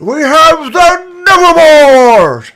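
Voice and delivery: slow booming announcement; proud proclamation. Acted. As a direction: proclaim it to the whole crowd. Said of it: "announcer proclaims team".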